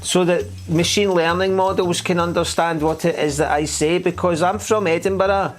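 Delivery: exaggerated presenter voice. Shown as a demonstration. Edinburgh host mocking how to talk so machines understand, exaggerated presenter voice. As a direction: present it in a hammed-up, over-clear high voice. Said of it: "Let's all start talking like this".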